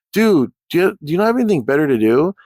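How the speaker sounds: exasperated retort to a troll. Retold or imitated. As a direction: fire back in disbelief.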